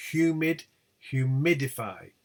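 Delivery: HUMID on HU, HUMIDIFY on MID; stress shift. Shown as a demonstration. Teacher showing attracted stress, shift to MID. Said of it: "They attract the stress".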